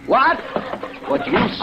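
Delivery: shocked disbelief. Acted. Police inspector stunned by Johnny's claim, sharp high-pitched disbelief. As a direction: jolt up in pitch, caught completely off guard. Detective hears suspect is innocent.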